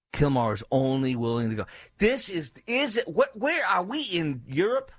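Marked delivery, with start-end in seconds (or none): 2.0-4.9 high-pitched sputtering disbelief; incredulous. Real, not acted. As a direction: stammer it out, pitched way up.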